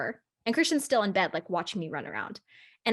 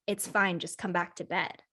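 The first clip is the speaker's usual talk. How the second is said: low eerie calm; 4 semitones lower, 5 dB quieter than usual. Retold or imitated. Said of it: "I remember him going".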